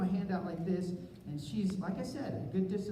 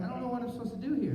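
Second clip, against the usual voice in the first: confused rush; 5 semitones higher, much faster than usual. Retold or imitated.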